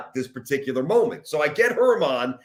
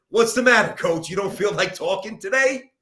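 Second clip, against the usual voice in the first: higher, needling mock-angry question; retold irritated outburst, pitched up; pissed-off challenge; 5 semitones higher, 4 dB louder than usual. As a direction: reenact your own mad jab at a coach. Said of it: "I was just pissed".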